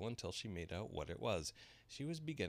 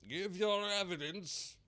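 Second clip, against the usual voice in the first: high, slow, loud angry king; 13 semitones higher, 6 dB louder, slower than usual. A narrator's reading. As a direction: repeat it as a furious king. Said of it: "the king repeated angrily".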